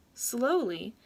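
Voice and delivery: usual speaking voice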